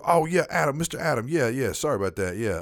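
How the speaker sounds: lightly voiced apologetic coworker; dopey coworker voice. A hint of the dazed coworker apologizing to Adam. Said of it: "voice for Robert sounded s".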